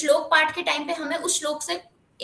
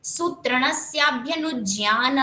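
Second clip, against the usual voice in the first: slow Sanskrit chant, pausing after eight syllables; measured verse recitation; metered shloka recitation; slower than usual. Shown as a demonstration. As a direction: chant slowly, marking the eight-syllable pause. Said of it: "यहाँ पे आठ पूरे हो रहे हैं अब".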